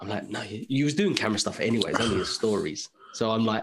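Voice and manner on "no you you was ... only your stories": ordinary talk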